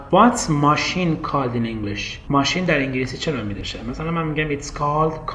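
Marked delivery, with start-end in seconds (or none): 0.1-2.0 slow demo question. Shown as a demonstration. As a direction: ask slowly like a learner. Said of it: "به من میگه فرشاد". (آهسته و شمرده بپرس)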